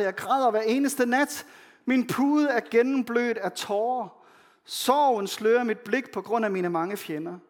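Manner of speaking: earnest scripture reading with a touch of anguish; lament reading. Acted. Pastor reading the lament psalm aloud, earnest and pleading. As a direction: let the plea sound through the verses.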